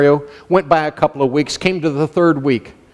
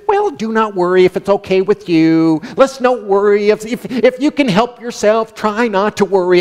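mock wishy-washy suggestion. What the verse doesn't say to believers, wishy-washy suggestion. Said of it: "It doesn't say just".

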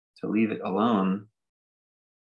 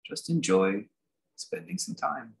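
unhurried meditation leader, long pauses between phrases; guided meditation. Real, not acted. Teacher settling listeners into just being here, guided meditation. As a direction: ease them gently into sitting, phrase by phrase.

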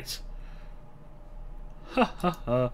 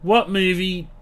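hyped announcer; 8 dB louder than usual. Real, not acted. Loud showman address to folks.

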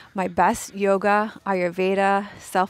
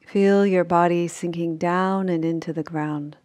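unhurried sleep-meditation voice with long pauses; measured Yoga Nidra guidance, phrase by phrase; guided meditation; 5 dB louder than usual. Acted. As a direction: guide them gently into rest, leaving long silences.

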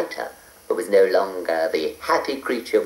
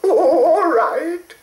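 giggling; 4 dB louder, slower than usual. A narrator's reading. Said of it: "giggled Mavis".

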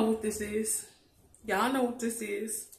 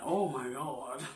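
put-on kids' stunned reaction; 6 semitones lower, slower than usual. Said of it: "They're looking at it like".

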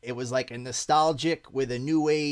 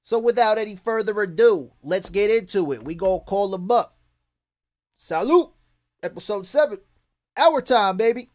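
hype shout; 5 semitones higher, 6 dB louder than usual. Real, not acted. Hyping the show start.

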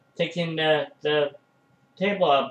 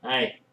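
quiet hiccup sound; a small hiccup; 4 dB quieter than usual. Real, not acted. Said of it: "think I got the hiccups".

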